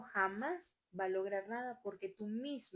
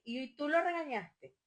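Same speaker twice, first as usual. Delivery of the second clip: imitated parent; 5 semitones higher, 4 dB louder than usual. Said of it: "me dicen".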